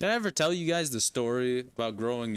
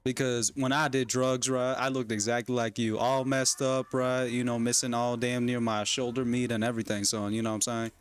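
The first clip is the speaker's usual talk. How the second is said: put-on Texan accent. Parent warning son off drugs, Texan accent. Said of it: "pretend I have a Texan accent".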